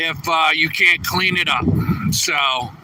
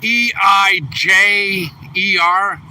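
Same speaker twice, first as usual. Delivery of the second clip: slow spelling out; slower than usual. Shown as a demonstration. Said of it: "It's M".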